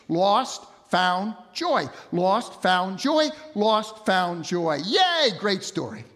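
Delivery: "Lost, found, joy" in a punchy, repeated rhythm; tidy rhythmic triplets on "Lost, found, joy"; sing-song cadence. Shown as a demonstration. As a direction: chant "Lost, found, joy" round and round, then cheer "Yay". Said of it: "perfect cadence".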